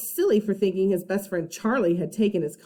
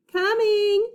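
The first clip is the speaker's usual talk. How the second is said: high, bright call of coming; a kid's excited holler; eager shout; 12 semitones higher, 3 dB louder than usual. Acted. Eugene calling back.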